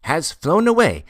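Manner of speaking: high, loud mysterious pronouncement. A narrator's reading. Porter revealing a secret to Ordinov, mysterious and high. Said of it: "repeated in a still more mysterious tone".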